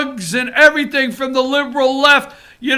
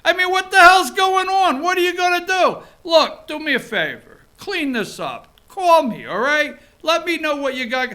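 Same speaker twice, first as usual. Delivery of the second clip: Trump going New Yorker. Retold or imitated. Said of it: "I love when Donald Trump goes New Yorker".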